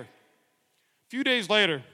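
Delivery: A few days later stretched out slowly; slow right down on a few days later; slow, drawn out. Shown as a demonstration. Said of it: "rereads the line slower".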